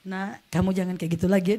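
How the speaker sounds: low, softened fatherly caution; mild, low-voiced telling-off; retold gentle admonishment. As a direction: imitate a father relenting, pitch dropped. Father relenting while unlocking chain.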